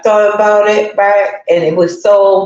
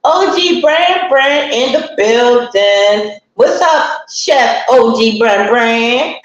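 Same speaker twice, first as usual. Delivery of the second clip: drawn-out shout-out; 3 semitones higher, slower than usual. Real, not acted. Shouting out a viewer by name.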